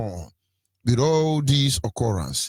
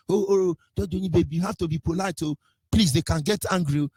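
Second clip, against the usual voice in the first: higher, softened voice of a timid appeaser; mock pleading; 3 semitones higher than usual. Speaker imitating those who urge politeness, mock pleading. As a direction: mockingly plead for good manners.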